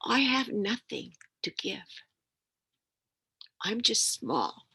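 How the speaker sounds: slow, breathy whisper of a sad little mouse; hushed, slow little mouse voice; small whispered mouse. A narrator's reading. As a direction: whisper it like a tiny creature with nothing to give. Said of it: "little mouse looked at him and said".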